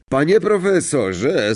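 slow, high-pitched whining call. A narrator's reading. Pupil calls to his professor, calling out. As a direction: draw it out to summon the teacher. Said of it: "zawołał Malfoy".

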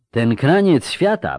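slow line, as if with a head cold; congested speaker. A narrator's reading. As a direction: voice a man with a cold. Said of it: "powiedział zakatarzony".

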